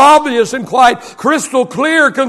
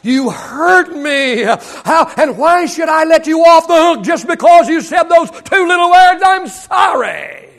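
wounded defiant inner voice; 3 semitones higher than usual. Retold or imitated. Pastor voices the hurt heart refusing an apology, mock indignant. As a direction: play the hurt pride that won't let go. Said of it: "something down deep inside of us says".

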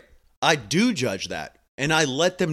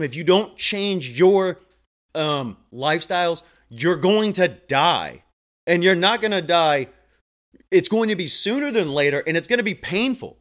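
stern warning; 3 semitones higher, 3 dB louder than usual. Retold or imitated. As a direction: lean in and lay down the hard truth. Blunt warning to patients.

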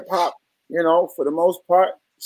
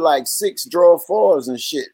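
ordinary talk

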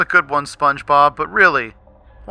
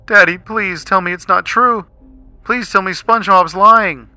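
holding back tears; 9 semitones higher, 8 dB louder than usual. Acted. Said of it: "holding back her tears".

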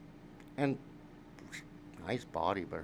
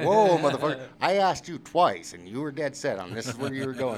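much higher and louder, slowing on "I asked you twice"; heated defensive yell; 7 semitones higher, 12 dB louder than usual. Retold or imitated. Brian yelling back at his friend, a heated defence. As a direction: throw the blame right back at him.

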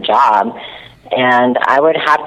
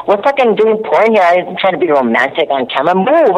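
mock irritated scolding; 6 semitones higher than usual. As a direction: shove him away with words, half joking. Retold bickering with co-star.

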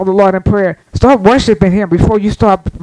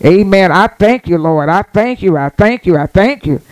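prayer. Shown as a demonstration. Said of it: "get God praise".

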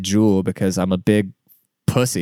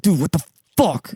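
pitched-up exasperated retort; retold scolding; 5 semitones higher than usual. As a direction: act out a mildly fed-up scolding. Retold scolding of his cat.

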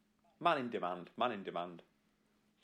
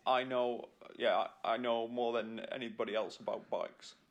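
lightly put-on royal English accent; Prince Charles accent. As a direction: attempt an accent that lands somewhere near royal. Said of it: "It sounded more like Prince Charles".

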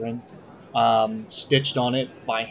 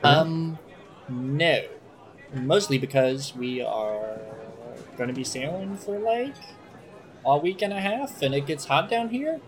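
high, rising explanatory lilt; lightly voiced cook explaining the obvious, hesitantly; halfling cook; 4 semitones higher than usual. Cook explains to passenger why there is no milk, higher lilting voice.

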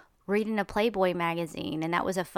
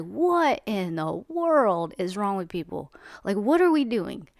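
exasperated outburst; 4 dB louder than usual. Retold or imitated. Reacting to the movie trailer, a louder, exasperated outburst. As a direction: throw up your hands at everyone. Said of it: "And I'm like".

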